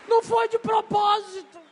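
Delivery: a trapped bird crying out in panic; panicked bird. Acted. The caged bird wailing to itself, high and desperate.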